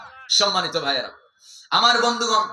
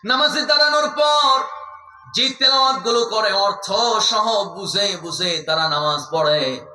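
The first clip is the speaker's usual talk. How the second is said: melodic sermon exhortation. Acted. Preacher urges friends to focus on prayer, melodic chanting. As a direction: intone it like a preacher, stretching the phrase endings.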